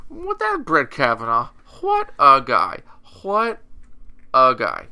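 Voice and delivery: loud, drawn-out sarcastic praise; mock cheering. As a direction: boom out hammed-up admiration. Sarcastic cheer for Brett Kavanaugh.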